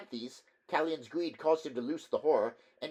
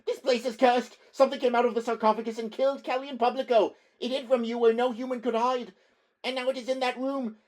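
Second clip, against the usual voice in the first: much higher, louder, cracking hysteria; hysterical shrill; 13 semitones higher, 10 dB louder than usual. Acted. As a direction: shriek in panic, voice breaking. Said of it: "voice shrilled and cracked with hysterical excitement".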